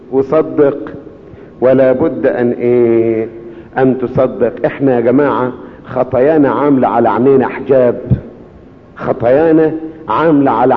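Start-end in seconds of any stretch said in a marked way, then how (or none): 0.1-4.6 slow, drawn-out call to the congregation; preacher's refrain. Acted. Preacher inviting the congregation to finish the refrain, slow. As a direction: pause and let them answer.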